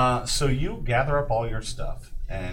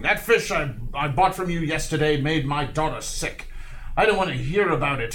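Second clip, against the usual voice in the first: irate customer, higher pitch but held back; understated angry customer with raised pitch; mild mock yelling; 4 semitones higher than usual. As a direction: complain heatedly without really shouting. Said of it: "He's yelling at him, screaming".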